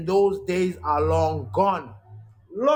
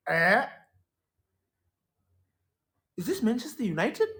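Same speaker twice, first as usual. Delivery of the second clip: disbelief; 6 semitones higher than usual. Retold or imitated. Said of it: "and then it's like".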